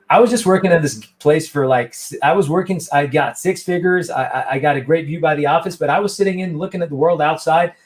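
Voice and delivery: put-on lively retelling in a light American accent; guest's story retold in a light American accent. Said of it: "I'll just do my American accent".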